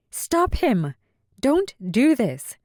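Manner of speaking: high, pressing plea; urgent plea. Acted. Callie urging Bay to stop Kelsey, high and urgent. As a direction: beg him to act, now.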